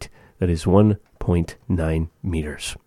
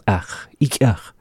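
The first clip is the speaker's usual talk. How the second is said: whisper; 2 semitones higher than usual. Acted. Acted refusal whisper.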